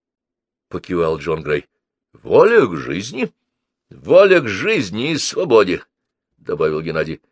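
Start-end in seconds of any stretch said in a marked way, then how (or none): 2.1-5.8 put-on perky boy. A narrator's reading. Boy adds to his bold answer.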